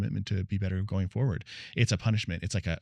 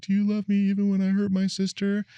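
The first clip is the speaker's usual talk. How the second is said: put-on high little-girl voice; much higher, childlike plea; child's question; 12 semitones higher, 3 dB louder than usual. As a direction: ask it like a small worried child. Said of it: "one of the things she said to me".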